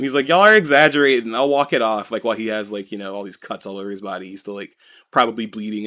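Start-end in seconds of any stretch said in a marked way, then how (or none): 0.3-2.1 raised voice, brushing off the fuss; half-yelled retold protest; mock yell. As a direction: imitate an indignant patient, louder at first. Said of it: "like, yelling at them".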